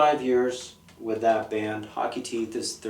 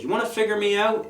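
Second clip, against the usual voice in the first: confrontational; 9 semitones higher, 3 dB louder, faster than usual. Retold or imitated. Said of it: "In a very confrontational voice".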